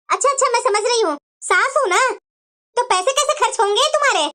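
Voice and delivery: loud, scolding taunts at the daughter-in-law; scolding mother-in-law. Acted. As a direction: berate her with bitter sarcasm. सास बहू को डांटती है. (बहू को ताने मारती गुस्से वाली सास)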